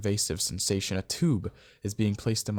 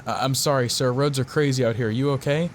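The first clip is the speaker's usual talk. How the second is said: raised, louder, higher voice; shouting over rain; 5 semitones higher, 6 dB louder than usual. A narrator's reading. Driver to officer in a storm, shouting over rain. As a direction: call out over heavy rain. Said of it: "I shouted over the rain".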